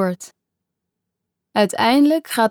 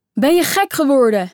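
calling out; 4 semitones higher than usual. Acted. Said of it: "riep Daniel nog".

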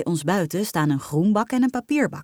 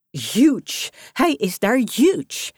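dweepzieke moeder; 6 semitones higher, 4 dB louder, much slower than usual. A narrator's reading.

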